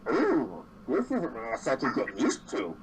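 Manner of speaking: lightly muffled creature, swooping intonation; a slightly muffled voice with exaggerated ups and downs. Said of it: "that's muffled, saying".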